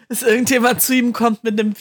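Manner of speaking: loud, overdriven mic signal; speaking too hot into the mic; clipping distorted mic. Real, not acted. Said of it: "du übersteuerst tatsächlich". (übersteuertes Mikrofon)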